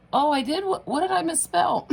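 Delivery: high, loud, half-laughing shock; startled surprise. Retold or imitated. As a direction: replay her own alarmed reaction with a giggle. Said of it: "I was like".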